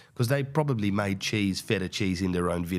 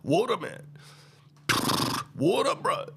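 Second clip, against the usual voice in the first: much higher, whiny frightened donkey voice; panicked donkey; 13 semitones higher than usual. Retold or imitated. Donkey pleading about the water, high and whiny. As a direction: plead like a scared animal. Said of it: "the animal's like".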